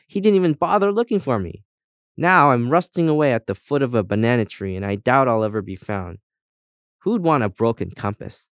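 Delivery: lively character telling its misfortunes, often lifted; chatty compass guide. Acted. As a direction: chatter through your own sad history. Compass tells how it was lost.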